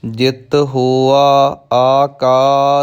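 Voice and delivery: slow, measured recitation with drawn-out syllables; scripture recitation. Shown as a demonstration. Teacher models a scripture line for learners, slow recitation. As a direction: recite each word slowly and evenly.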